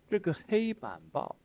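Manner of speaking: high, loud bureaucrat's voice; hammed-up party official announcing. Teacher mimics old cadre boasting, in official tone. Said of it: "the tone of this old man".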